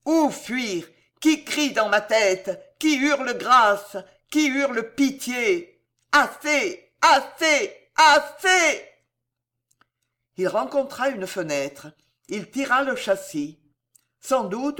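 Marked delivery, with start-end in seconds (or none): 0.0-8.8 shrieks building high and loud on each Assez; screaming. Acted. Charles runs mad through the Louvre, screaming, building to a shriek. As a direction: scream louder each time until it breaks. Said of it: "et hurlait".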